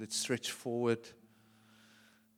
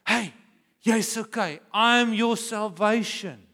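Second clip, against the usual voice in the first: reassuring God; 10 semitones higher, 12 dB louder, slower than usual. Acted. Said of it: "he wants to say".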